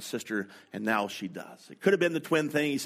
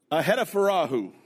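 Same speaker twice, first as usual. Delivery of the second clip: a touch louder, sure of the name; confident pronunciation; 3 semitones higher, 4 dB louder than usual. Retold or imitated. Daughter sounding out an Ethiopian name, confident. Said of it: "She said it with confidence".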